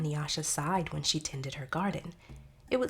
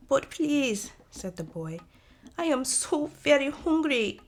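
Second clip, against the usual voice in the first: put-on high, pleading child voice; pleading little boy; 9 semitones higher, 5 dB louder than usual. Small boy begging Manyara for food, high and pleading.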